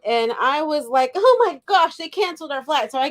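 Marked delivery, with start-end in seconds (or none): 1.2-2.9 re-enacted alarm, pitched higher; retold freak-out. Wife retelling her shock at the canceled flight, mock freak-out. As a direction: jump up high on the gasped realization, mildly hammed-up. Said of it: "and I'm freaking out".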